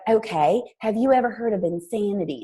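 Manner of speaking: lightly imitated sweet Southern accent; touch of a sweet Southern voice; Jackie Woodfin. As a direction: ask it in a mild Southern accent. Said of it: "I'm gonna do her accent".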